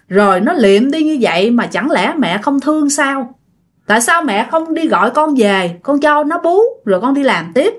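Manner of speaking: daughter-in-law's pleading reproach; acted indignant pleading; mild angry protest. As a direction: push back at the mother-in-law, hurt. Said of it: "bà Sang mới phản kháng".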